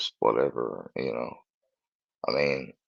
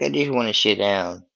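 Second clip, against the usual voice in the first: a light, slightly higher mock dog voice; voicing the dog; 5 semitones higher than usual. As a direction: speak for the dog, lightly put on. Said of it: "He's like".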